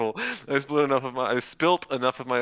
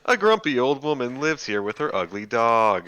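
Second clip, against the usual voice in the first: announcer voice; 4 semitones higher, 4 dB louder than usual. Shown as a demonstration. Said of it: "my announcer voice".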